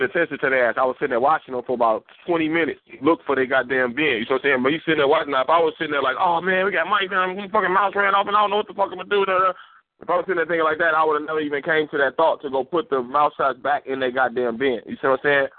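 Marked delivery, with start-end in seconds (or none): 6.2-9.5 pitched-up, flustered whine; mock panic. Friend imitating his own panic over the mice, mock flustered. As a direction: play the guy losing it over mice.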